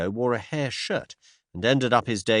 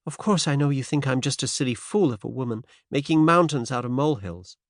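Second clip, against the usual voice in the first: put-on faint transatlantic American accent; light American lilt, lifted pitch; 4 semitones higher than usual. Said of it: "faint transatlantic accent".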